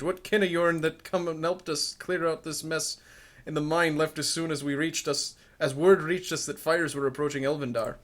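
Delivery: put-on a loose rural Scottish-ish accent; vague put-on accent. Reading the dwarf's lines in an unplaceable put-on Scottish-ish accent. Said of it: "I don't know what kind of accent that is".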